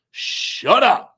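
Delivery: stunned shout. Retold or imitated. Fan reacting to his hero's praise, loud and stunned. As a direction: blurt it out, floored. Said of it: "And I said".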